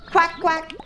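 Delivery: high-pitched quacking; playful ducky double quack; duck quack. Pretend. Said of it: "I'm a duck".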